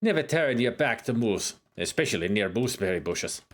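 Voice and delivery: light put-on accent sliding toward Scottish; accent drifting Scottish. Uhura jokes about moose in an accent drifting Scottish. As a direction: let the accent wander into Scottish. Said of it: "Getting into Scottish now".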